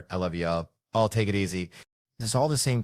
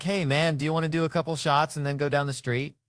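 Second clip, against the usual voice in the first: buddy voice; 8 semitones higher than usual. Retold or imitated. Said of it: "We're like".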